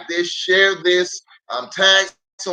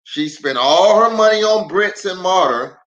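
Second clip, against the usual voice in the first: storybook read-aloud with lively swings; reading to children; 3 semitones higher than usual. Acted. Pastor reading a picture book aloud to kids online.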